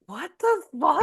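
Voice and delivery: high squeaky oh shit; shocked oh shit. Retold or imitated. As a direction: jump up in pitch as if caught off guard. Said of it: "I'm like".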